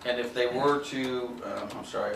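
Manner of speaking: talking while chewing gum; words round a wad of gum. Real, not acted. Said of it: "I can't talk and chew gum at the same time".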